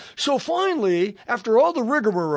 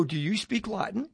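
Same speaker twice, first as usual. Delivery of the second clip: hushed, voiced mock whisper; retold whisper; 7 dB quieter than usual. Newcomer leaning over in church to ask, retold whisper. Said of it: "I'm whispering again".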